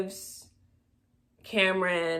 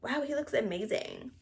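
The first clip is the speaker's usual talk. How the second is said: higher, breathy-gasp amazement, mocked; mock amazed gasp; 6 semitones higher, 5 dB quieter than usual. Vlogger mimics partygoers seeing Cameron's makeover, higher mock awe. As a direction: act wowed like a whole crowd. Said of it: "Everybody's like".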